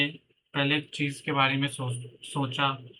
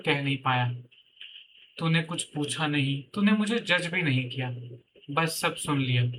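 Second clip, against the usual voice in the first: lightly performed monologue with reflective pauses; heartfelt letter reading; 2 semitones higher than usual. Acted. Writer addressing his old notebook about past dreams, heartfelt reading. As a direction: read it aloud like a personal letter to an old friend.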